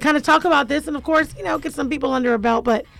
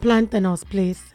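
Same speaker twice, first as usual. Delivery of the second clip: lightly put-on Dominican accent; 4 semitones lower, slower than usual. Host imagining herself as Vasti in a movie, mock Dominican accent. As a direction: play a Dominican character ordering food. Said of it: "you got the tone down".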